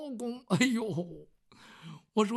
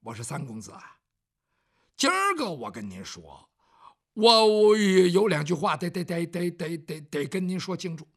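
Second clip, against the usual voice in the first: servant stammering, stuck on 得 over and over; stuttering; 3 semitones lower, 6 dB louder than usual. Acted. Bao Xing struggling to tell his master something, stuttering. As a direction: stammer hard, repeating 得 before you get it out. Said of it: "这包兴口吃了".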